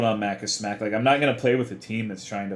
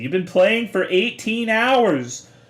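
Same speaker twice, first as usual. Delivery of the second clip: put-on screaming, higher-pitched and louder; 11 semitones higher, 7 dB louder than usual. Retelling how a wife yelled at her husband during a game: imitating someone screaming. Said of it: "screaming at him to get off".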